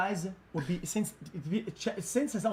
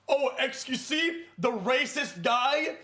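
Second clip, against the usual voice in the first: slow, slightly higher mocking voice; lightly voiced imitation of Sean; Sean impression; 5 semitones higher, slower than usual. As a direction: mimic Sean's sneering question. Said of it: "That was not a good Sean impression".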